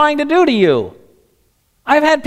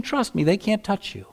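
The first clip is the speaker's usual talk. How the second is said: reassuring God; 3 semitones lower, 9 dB quieter than usual. Acted. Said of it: "He's saying".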